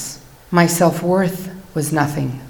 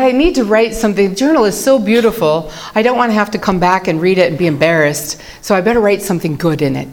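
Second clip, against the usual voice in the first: eager inner voice; 3 semitones higher, 4 dB louder, faster than usual. Retold or imitated. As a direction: rush it like an overeager self. Retelling her own eager thought.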